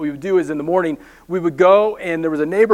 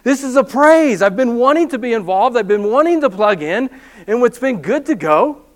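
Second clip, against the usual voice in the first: eager enthusiasm; 4 semitones higher than usual. Retold or imitated. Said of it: "we're like".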